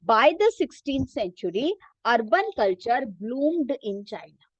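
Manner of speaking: reading a textbook sentence very slowly for students to follow; teacher reading the book aloud, slow and measured. Shown as a demonstration. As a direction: dictate it slowly, word by word.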